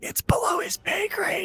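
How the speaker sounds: ear-close, soft, secretive whisper, barely voiced. Voicing a character leaning over to whisper in someone's ear: whispering in character. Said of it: "just whisper in his ear ever so slightly".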